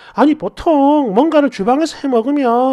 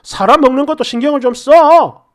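mildly raised, acted husband's nagging; irritable snapping; 4 dB louder than usual. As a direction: scold with a touch of temper. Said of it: "신경질을 딱 내니까".

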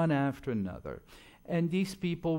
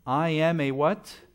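teasing question; 3 semitones higher, 6 dB louder than usual. Shown as a demonstration. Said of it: "asking the congregation".

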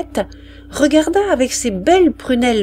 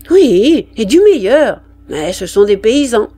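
louder, proud canteen woman; 6 dB louder than usual. Acted. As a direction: she boasts of her brandy. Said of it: "demanda le sergent". (la vivandière, fière et forte)

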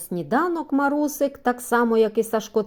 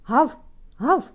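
deep barking; 5 semitones higher, slower than usual. A narrator's reading. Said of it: "басовито вторив Бровко".

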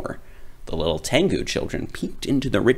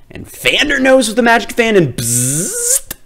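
excited storytelling; 7 dB louder than usual. A narrator's reading. Magic fan zaps the nose.

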